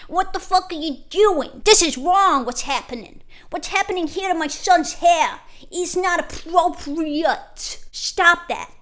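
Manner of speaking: loud, high put-on American dad rant; dad raging about son's haircut, in a high loud put-on voice; Tate's dad voice. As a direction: rant like an outraged American father. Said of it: "That's what Andrew Tate's dad, uh, sounds like".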